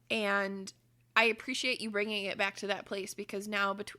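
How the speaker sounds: normal talking voice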